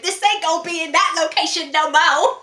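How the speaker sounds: bad Black accent. Friend mimicking what her mate said, bad Black accent. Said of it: "very bad black accent that you went".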